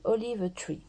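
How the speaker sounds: "Olive Tree" with a real French accent; French-accented English. Real, not acted. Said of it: "faites pas attention à mon accent". (anglais avec l'accent français)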